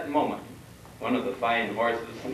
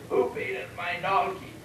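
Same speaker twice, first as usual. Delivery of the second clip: hammed-up cry of outrage, pitched up; mock bellow; 8 semitones higher than usual. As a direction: call it out high like an angry little man. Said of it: "bellowing at the top of his voice".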